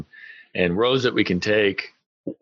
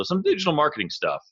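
voice cracking; 7 semitones higher than usual. Real, not acted. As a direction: voice cracks up high mid-phrase. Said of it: "I think my voice just cracked".

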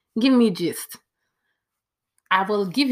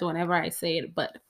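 ordinary talk

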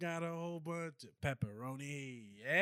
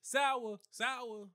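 corner store guy; 10 semitones higher than usual. Retold or imitated. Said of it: "they don't be yelling sour".

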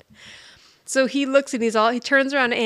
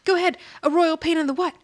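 taunting dare; 7 semitones higher than usual. Retold or imitated. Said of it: "So she's like".

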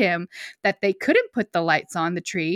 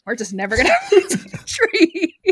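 stubborn dad; faster than usual. Retold or imitated. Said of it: "he's probably sitting there like".

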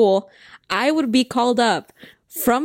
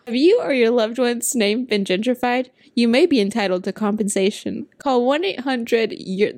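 mock late-night lawyer commercial; injury lawyer ad. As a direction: pitch it like a TV ad. Parody ad for name gentrification.

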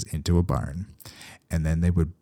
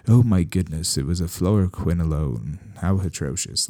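a hint of a snooty British vet; British accent. Future vet scoffing at old treatments, light British accent. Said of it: "I defaulted to a British accent there".

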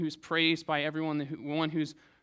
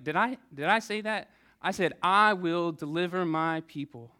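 God setting Moses straight; mock-indignant God; 2 semitones higher, 5 dB louder than usual. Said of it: "And God was like".

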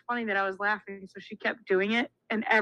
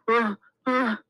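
imitated panda noise; 3 dB louder than usual. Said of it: "it makes the noise of a panda".

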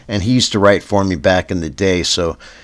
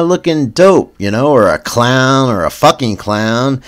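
mock Doocy rant; 4 semitones higher than usual. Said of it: "Doocy stated".

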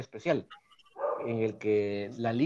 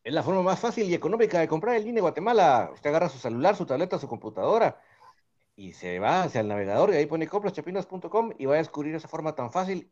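upbeat radio sales pitch, higher voice; ad read; 3 semitones higher than usual. Acted. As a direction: pitch it like a live radio spot. Reads a sponsor's ad. (lectura de anuncio comercial animada)

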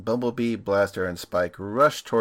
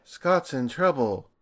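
mock panic; 4 dB louder, slower than usual. Mock cartoon character panicking.

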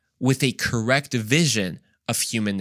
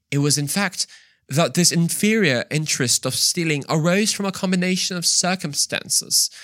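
higher, put-on pompous explaining voice; mock-fancy voice; 5 semitones higher than usual. Preacher parodies a fancy excuse for looting, mock-fancy.

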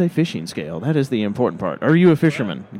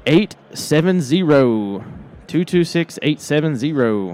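announcer; slower than usual. Acted. Reading out a winning ticket.

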